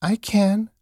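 high-pitched defensive little rabbit; little toy rabbit. A narrator's reading. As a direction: insist in a small high voice. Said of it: "said the little rabbit".

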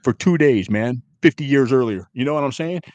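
really going off, voice pushed up. Real, not acted. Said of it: "I had to go off".

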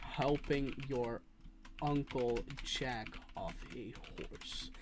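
slow, with a pause after "your"; dictating slowly, with pause. Shown as a demonstration. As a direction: break it into two slow chunks. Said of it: "two entirely different meanings".

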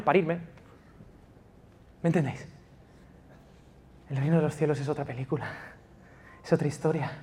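hushed, tender sermon voice; intimate sermon. Acted. Pastor gently assuring migrants about God's kingdom, hushed. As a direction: draw the listeners in close.

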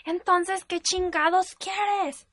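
exasperated yell, words stretched out; retold angry shout. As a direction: shout it like a furious boyfriend demanding an answer. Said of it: "y me gritó".

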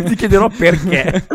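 talking through laughter; laughing. Pretend. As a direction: laugh while saying it. Joking threat, laughing. (ridendo mentre parla)

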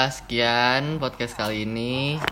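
drawn-out host closing line; first try at the podcast outro; slow sign-off. Shown as a demonstration. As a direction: stretch the closing words slowly. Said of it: "Ya udah ya".

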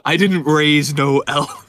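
gruff dwarf father voice; viking. Pretend. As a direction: play a proud Viking dwarf dad. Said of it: "Sounds like Viking dwarf talk".

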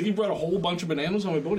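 high-pitched outraged disbelief, played for laughs; hammed-up indignant question; mock incredulity. Acts the captain's disbelief.

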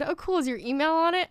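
a hint of an eager stranger asking; light imitation of the woman. Retelling what the woman asked her, lightly voiced. Voicing the woman she met.

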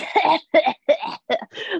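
high mock cackle of onlookers; imitated group laughter. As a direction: imitate a gang of extras laughing. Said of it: "They're all like".

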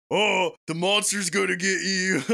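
imitating a dad playing monster; put-on goofy monster for the kids; playful monster voice. Mimicking Keanu playing with his kids, mock monster voice. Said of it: "he kept doing the voice".

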